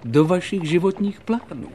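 firm, ringing argument; emphatic reasoning. Acted. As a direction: drive the logic home to a client. Holmes firmly reasons with the king.

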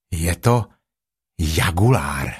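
low, measured bear voice; lightly voiced bear lowering the pitch; low storybook bear; Pooh. Pooh names the beast.

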